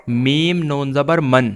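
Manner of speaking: measured spelling that lands on من, n fully sounded; teacher demonstrating the n ending of من; sounded final n. Shown as a demonstration. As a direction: spell میم نون زبر, then say من as "man" with a clear n. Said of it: "یہ جو آخر کی آواز ہے نا".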